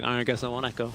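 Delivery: put-on sad boy voice. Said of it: "my sad boy voice".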